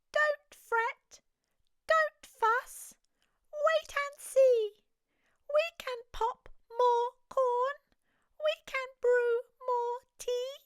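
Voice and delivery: high, comforting mouse squeak; squeaky mouse. Acted. Mouse reassuring the crying bear, high and squeaky. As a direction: soothe the bear in a tiny high voice. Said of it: "Mouse squeaks".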